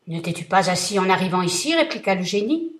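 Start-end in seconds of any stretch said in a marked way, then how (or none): 0.1-1.7 booming, much louder threat; thundering vengeful genie; terrible genie voice. Acted. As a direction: roar it down at him like a giant. Genie accuses merchant.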